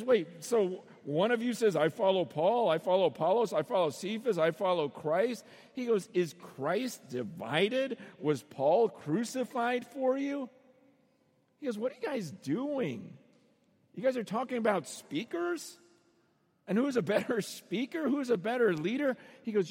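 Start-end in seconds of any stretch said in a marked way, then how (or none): 0.0-5.4 mocking list of rival loyalties; punchy, singsong sarcastic recital; sarcastic mimicry. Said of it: "it's just like sarcasm after sarcasm". 6.1-10.5 slow, incredulous rhetorical questions; drawn-out sarcastic challenge; sarcastic questioning. Acted. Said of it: "it's just like sarcasm after sarcasm". 11.8-19.2 acted-out incredulous scolding; mock-bewildered rebuke; sarcastic exasperation. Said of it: "it's just like sarcasm after sarcasm".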